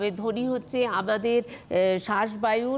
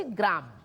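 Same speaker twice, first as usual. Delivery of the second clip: গ্রাম on its own, dropping low; separated second syllable; 4 semitones lower than usual. Shown as a demonstration. Teacher completing the broken word সংগ্রাম, separated falling syllable. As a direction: set গ্রাম apart after a pause, falling in pitch. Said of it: "তারপর আমি কি বলছি?".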